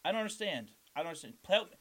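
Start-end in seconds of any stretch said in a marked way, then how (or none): 1.5-1.8 loud, high plea; pleading shout. Acted. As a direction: cry out for help, half joking. Mock plea to Wendy.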